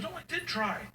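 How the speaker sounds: put-on high insistent kid voice; whiny kid. Daughter insisting she can't sleep, whiny. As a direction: whine it.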